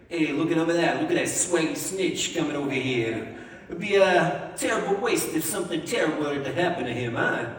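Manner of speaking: light mock New Jersey tough-guy accent; a hint of a New Jersey mobster, sly. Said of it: "kind of like a New Jersey accent".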